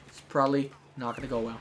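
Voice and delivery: pauses around "probably". Real, not acted. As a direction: space it out, dwelling on "probably". Repeats it slower, with breaks.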